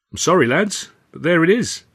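a lightly voiced Alf, mild regret; Alf apologetic. Alf apologising to the sacked lads, mildly sorry. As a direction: say it gently with a small shrug.

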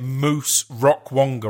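slow Essex drawl on the name; Essex accent. Retold or imitated. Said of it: "in my Essex drawl".

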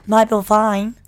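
Australian accent. Shown as a demonstration. Podcaster showing off the Australian accent hack, loudly. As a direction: give the phrase a firm Australian twang. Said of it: "That's a good accent hack".

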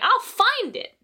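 put-on high-pitched, insistent kid vow; defiant retort. Twelve-year-old to mom who didn't believe her, defiant.

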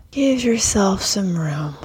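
slow whispered cue. Acted. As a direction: hush it like a spa guide.

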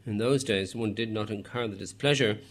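a lightly put-on British accent, badly done; a faint stab at a British accent; hopeless British accent. The speaker briefly mocking in a weak British accent. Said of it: "again that hopeless attempt at British accent".

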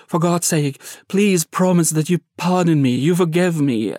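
a lightly voiced desperate guard, begging; pleading captor. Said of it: "he's now pleading".

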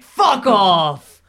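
loud mock fuck off; hammed-up shout of disbelief; disbelieving swear. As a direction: throw it out in shock. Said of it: "Again, Bobby's like".

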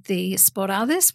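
Sporades said the Greek way, like spo-RA-thes, slowly; Greek pronunciation. Shown as a demonstration. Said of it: "Sporades for those of us who can't speak Greek".

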